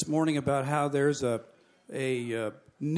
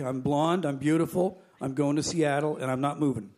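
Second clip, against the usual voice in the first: quicker run-through, no pauses between claims; same old story. Acted. Retelling the refusal to the head attendant, rote recap. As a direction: rattle it off as a familiar refrain. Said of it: "Same old story".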